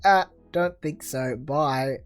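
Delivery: slow, casual brush-off; mock dismissal. People replying to the horse post, mock dismissal. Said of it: "people will be just going".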